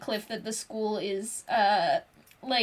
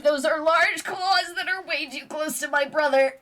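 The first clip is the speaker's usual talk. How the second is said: alarmed whimper; 4 semitones higher than usual. Acted. Eek sees claws near brother.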